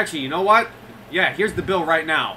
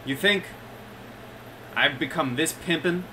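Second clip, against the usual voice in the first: louder, higher smug boast; smug goblin mayor; 4 semitones higher, 4 dB louder than usual. Acted. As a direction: brag like a flashy showman. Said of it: "waves his hand and says".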